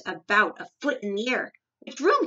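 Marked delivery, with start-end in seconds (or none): 1.8-2.3 high, loud, abrupt demand; snapped question. A narrator's reading. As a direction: snap it out urgently. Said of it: "he snapped".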